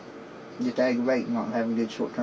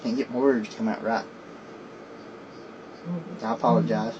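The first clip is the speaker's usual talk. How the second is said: slurred speech from a missing front tooth; 3 semitones lower, 5 dB quieter than usual. Real, not acted. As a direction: talk through a gap where a front tooth is missing. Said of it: "my front tooth gone".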